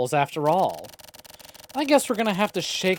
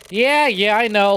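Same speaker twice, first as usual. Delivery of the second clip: annoyed; 5 semitones higher, 5 dB louder than usual. Pretend. Annoyed answer to yelling game.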